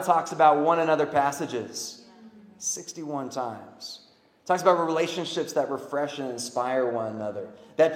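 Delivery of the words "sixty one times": softer, very slow echo of "Sixty-one times"; hushed repeat. Shown as a demonstration. Preacher repeats the count quietly so it sinks in, slow and soft. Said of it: "Sixty-one times the Bible".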